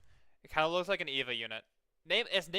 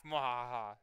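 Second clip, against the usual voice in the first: evil laugh; slower than usual. Pretend. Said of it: "Evil laugh".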